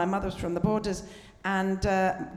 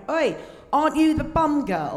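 lightly voiced bloke calling out, slow and higher; retold bloke; 6 semitones higher, 4 dB louder than usual. Bloke at an airport hailing her, retold call. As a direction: call out like a stranger hailing someone. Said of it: "a bloke at an airport went".

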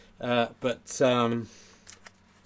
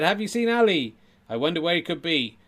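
ventriloquist act; 4 semitones higher, 4 dB louder than usual. Acted. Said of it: "here's my act".

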